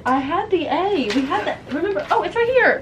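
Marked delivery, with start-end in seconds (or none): 2.1-2.8 laughing. Real, not acted. Finding the lost letter, laughing.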